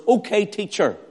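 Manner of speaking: high, mocking challenge; mock the title with cynical arrogance; sarcastic. Pharisees addressing Jesus as teacher, sarcastic. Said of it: "more through sarcasm and cynical arrogance".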